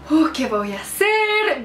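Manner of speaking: slow, drawn-out hammed-up worry; mock dismay. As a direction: stretch it out in acted helplessness. Acts out dilemma while followed.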